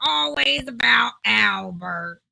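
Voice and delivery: a crying shout that sinks, then slow and bitter; fed up with always hearing about his brother; exasperated outburst. Acted. Guest who is sick of his brother's name being thrown at him, crying out.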